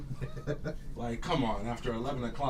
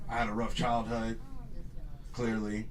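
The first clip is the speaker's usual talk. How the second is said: ordinary delivery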